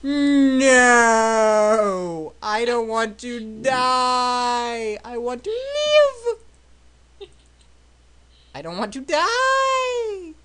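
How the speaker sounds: high, slow melodramatic wail; hammed-up howl of despair; Darth Vader "No!". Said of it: "do the Darth Vader".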